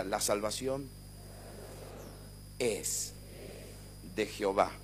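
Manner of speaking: gentle prompt for the congregation; soft recitation. Shown as a demonstration. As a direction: say it softly for the church to echo. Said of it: "diga conmigo".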